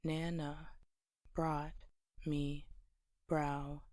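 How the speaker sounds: "Nana, brought, me, brow, knees" in separate pieces; syllable by syllable. Shown as a demonstration. Teacher breaking down the line's syllables for learners, syllable by syllable. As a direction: pause between each piece, splitting brownies into "brow" and "knees". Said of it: "breaking down the syllables would be".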